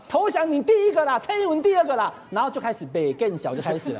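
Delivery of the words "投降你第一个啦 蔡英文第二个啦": imitating her angry retort, pitched higher; mock fury, jabbing each line out; retold blow-up. Legislator firing back at the premier, imitated in mock anger. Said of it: "郑丽文就发飙了啊".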